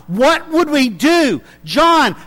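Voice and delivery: worried congregation begging their teacher; pleading church members. Retold or imitated. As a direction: beg John for a letter. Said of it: "they're gonna go contacting John".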